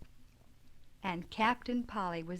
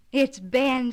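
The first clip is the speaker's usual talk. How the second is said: loud, higher shout of discovery; excited scream; 4 semitones higher, 11 dB louder than usual. Acted. Phronsie recognising Ben as Santa, screaming with glee. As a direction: yell it as you unmask him. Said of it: "screamed Phronsie".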